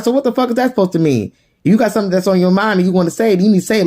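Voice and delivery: high, quick confrontational retort; challenging. Retold or imitated. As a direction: act out daring someone to speak up. Mother challenging son in retold quarrel.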